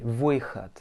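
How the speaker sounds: выход ending in a clear t sound; final D as T. Shown as a demonstration. Teacher showing the last consonant of выход, D as T. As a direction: say выход with the д devoiced to t. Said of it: "bien comme un T".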